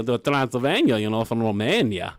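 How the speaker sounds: lightly faked Transylvanian accent; hammy Romanian accent at ordinary pitch; mock Romanian accent. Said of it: "Is that how all Romanians talk?".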